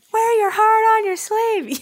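a host delivering his catchphrase to the crowd. Pretend. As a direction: belt it like a signature slogan. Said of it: "I'm just like".

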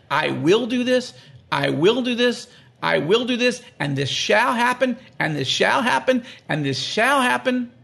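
each "will" and "shall" pressed firmly; emphatic reading. Shown as a demonstration. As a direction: read the promises with weight, word by word. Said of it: "I emphasize it when I read it".

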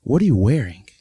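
put-on sharp, judging older woman; lightly voiced disapproving lady; rude woman voice. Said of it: "She says".

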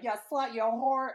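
high mock yell of insults; acted-out furious shriek; imitated screaming. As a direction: hurl it like a woman in a screaming match. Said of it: "they're screaming at each other, and she's like".

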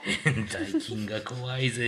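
slow, laughing cocky boast; Sugi-chan impression. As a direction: brag about something lame, proudly. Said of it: "スギちゃん". (笑いまじりのワイルド口調)

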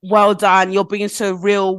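lightly sarcastic congratulations, drawn out at the end; mock praise. Woman mimicking praise for supposedly real posts, mock praise. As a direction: applaud them with a touch of irony.

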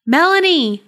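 loud, high desperate cry. A narrator's reading. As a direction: cry out her name. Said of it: "James cried out".

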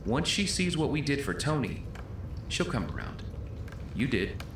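distant muffled voices; overheard through a door. Acted. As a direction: heard from outside the room.

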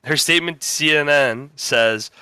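steady newscaster delivery; deadpan news read; news anchor read. Acted. Reads a mock news story.

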